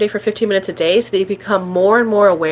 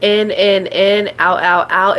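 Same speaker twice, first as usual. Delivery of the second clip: breath cue; slower than usual. Shown as a demonstration. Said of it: "focus on your breath".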